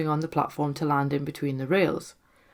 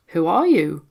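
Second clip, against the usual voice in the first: calling out; 7 dB louder than usual. Acted. Calling out to the spirit.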